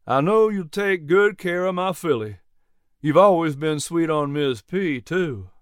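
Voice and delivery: lightly voiced genial old farmer; a hint of a friendly older neighbour. Narrator voices Jack Poindexter.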